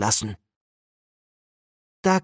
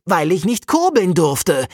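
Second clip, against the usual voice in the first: a touch raised, sulky protest; calling out; 4 semitones higher than usual. Acted. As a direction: answer back with balled fists. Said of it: "ruft Jakob".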